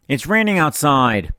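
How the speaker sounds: slow, mock French Canadian brush-off with a falling tune; Mister Couture impression. Algebra teacher answering a stupid question, mock French Canadian accent. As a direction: imitate a French Canadian teacher, stretching the words. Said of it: "an amazing imitation of Mister Couture".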